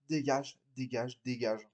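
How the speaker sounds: quiet fed-up repetition; weary dismissal. Acted. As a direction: brush them off, tired. Acted quarrel, dismissing someone.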